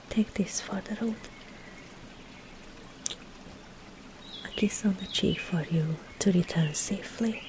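soft, half-whispered send-off; hushed, affectionate goodbye; tender farewell. Acted. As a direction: murmur it softly and unhurriedly, like a blessing. Tender farewell gift and kiss.

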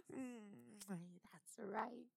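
put-on seductive whisper in a British accent. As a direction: breathe it out, British and teasing.

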